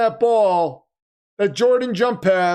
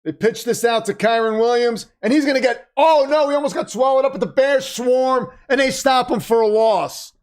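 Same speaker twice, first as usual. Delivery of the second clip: excited play-by-play; 4 semitones higher than usual. Real, not acted. Live call of a tense play.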